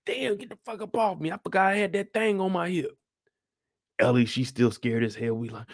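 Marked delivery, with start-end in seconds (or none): 0.1-3.0 voiced Joel. Voicing Joel.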